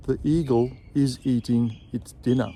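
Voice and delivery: "eagle is" run together, the L flowing into "is"; linked eagle is. Shown as a demonstration. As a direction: join "eagle" and "is" smoothly. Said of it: "join the L sound of eagle with the I sound of is".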